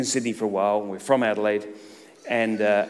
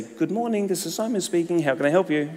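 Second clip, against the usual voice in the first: fake politeness; 5 semitones higher than usual. Sweet phone greeting after anger.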